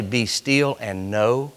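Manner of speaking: soft and slow; hushed quote. Retold or imitated. Preacher quoting God softly and slowly. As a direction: let it settle gently. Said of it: "Did he not say".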